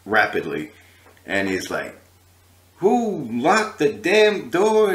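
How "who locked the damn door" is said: drawn-out, high, loud angry demand; angry famous singer. Retold or imitated. A famous singer storming in on his entourage, angry. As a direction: stretch it out high in mock outrage. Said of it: "he was really angry".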